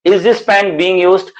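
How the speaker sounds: very slow, each word set apart; slow and clear. Shown as a demonstration. Teacher modelling a sentence for students, very slow. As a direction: model it slowly for the class. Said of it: "पहले धीरे बोलो please".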